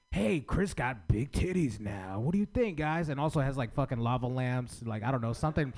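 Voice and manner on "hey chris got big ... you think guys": animated showman. Shown as a demonstration. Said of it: "animated with it".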